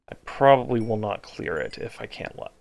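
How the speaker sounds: stumbling over words from exhaustion; tired, tripping over words; exhausted. Real, not acted. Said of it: "Talking is hard right now".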